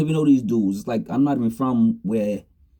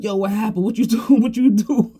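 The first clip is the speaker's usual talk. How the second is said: high, loud, laughing through the words; cracking up while asking; laughing friend; 10 semitones higher, 3 dB louder than usual. Retold or imitated. A friend on the phone asking what happened, laughing hard. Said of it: "he was like".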